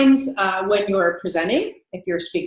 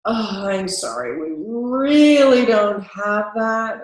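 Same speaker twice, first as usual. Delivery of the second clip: flat indifferent; slower than usual. Shown as a demonstration. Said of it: "what you don't want".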